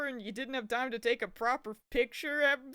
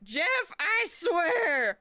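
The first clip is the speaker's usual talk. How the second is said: raised, loud burst of exasperation; exasperated shout; 6 semitones higher, 8 dB louder, much slower than usual. Real, not acted. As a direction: shout it as a fed-up warning. Streamer scolding someone in exasperation.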